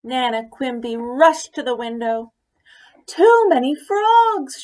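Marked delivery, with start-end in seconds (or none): 3.0-4.6 high, loud and slow wail; slow high loud despairing cry; cried out. A narrator's reading. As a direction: draw out the cry in exasperation. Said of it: "she cried".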